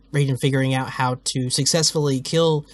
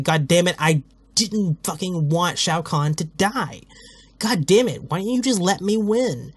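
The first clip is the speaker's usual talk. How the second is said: angry Liu Kang; 2 semitones higher than usual. Acted. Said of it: "he's so angry".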